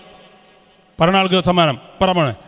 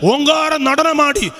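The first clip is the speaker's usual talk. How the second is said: slow, possessed dancer's voice climbing higher; menacing Tamil-tinged chant, slow and ever higher; Shobhana as Nagavalli; 7 semitones higher, slower than usual. Retold or imitated. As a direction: drag it out like a spirit taking over, rising as it builds. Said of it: "Manichitrathazhu സിനിമയില് ശോഭന കാണിക്കുന്ന പോലെയാ".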